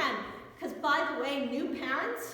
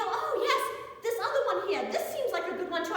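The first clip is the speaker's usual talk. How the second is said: eager customer voice; 6 semitones higher than usual. Retold or imitated. Customer picks floor model.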